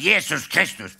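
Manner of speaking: loud pained oath; roared curse. Retold or imitated. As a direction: bellow it after hitting his head. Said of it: "så brøler han". (brølende ed)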